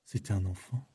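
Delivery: solemn. Acted. Solemn turn about killing a child.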